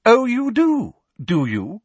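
high, loud, affronted challenge; sharp, high teacher's retort; no longer whispering. A narrator's reading. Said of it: "forgetting to whisper and straightening up".

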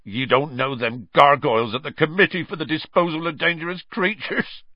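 a lightly voiced giant, choking back sobs; a hint of a tearful gamekeeper; choked Hagrid. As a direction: giant choking on tears to the children. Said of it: "choked Hagrid".

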